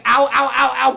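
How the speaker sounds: mock cries of pain. Imitating characters getting hurt.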